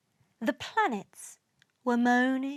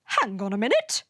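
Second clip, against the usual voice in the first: sudden shout; 3 semitones higher than usual. A narrator's reading. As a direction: shout to halt a squabble. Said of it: "Earth shouted out".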